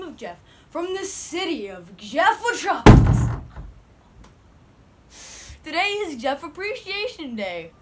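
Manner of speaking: grand mock overlord voice; pompous self-crowned ruler; booming demon lord. Kid plays self-styled overlord.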